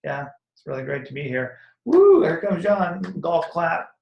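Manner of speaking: flat, dragged-out mock cheer, dead room; bored sarcasm. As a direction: sneer like a bored crowd half-clapping. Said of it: "everyone's like".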